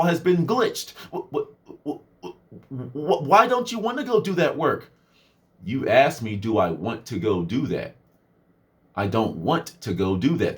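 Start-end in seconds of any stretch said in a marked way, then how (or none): 5.6-10.6 sarcastic literal. Retold or imitated.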